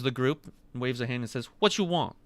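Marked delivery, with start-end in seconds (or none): 1.6-2.2 high, creaky greedy waiter voice; creaky greedy chomping chest. Acted.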